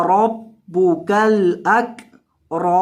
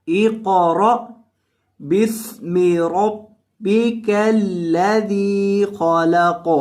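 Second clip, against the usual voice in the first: slow chanted recitation; Quranic recitation; much slower than usual. Shown as a demonstration. Teacher modelling the verse for students, chanted slowly. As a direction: draw the verse out melodically. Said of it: "تلاوت کے انداز میں پڑھنا".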